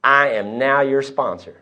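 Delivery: slow, deliberate pronouncement; grave retold declaration; dropping a bombshell. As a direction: announce it slowly, like a bombshell. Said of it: "he dropped the bomb on me".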